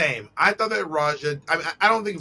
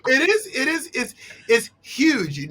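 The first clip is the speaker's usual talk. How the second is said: laughing; 9 semitones higher than usual. Real, not acted. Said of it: "laughing at the mock".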